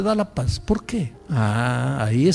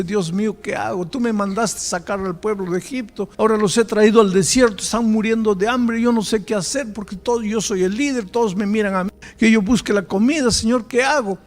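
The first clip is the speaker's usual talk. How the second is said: higher-pitched, hammed-up desperate prayer; mock tearful plea; 7 semitones higher than usual. Moisés praying to God in the desert, mock tearful pleading. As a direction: plead as an overwhelmed leader, acted. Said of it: "se arrodilló llorando".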